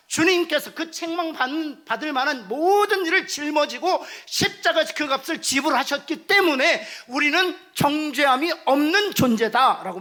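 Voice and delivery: loud, high, slow fervent preaching; preaching at full force. Real, not acted. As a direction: build to the climax. Preaching climax. (크고 높게 열정적으로 설교)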